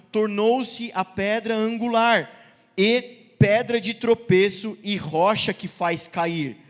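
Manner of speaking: measured, deliberate Bible reading aloud; scripture reading. Acted. Preacher reading Peter's letter to the church, measured scripture reading. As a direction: read the passage out to the congregation, each phrase weighted.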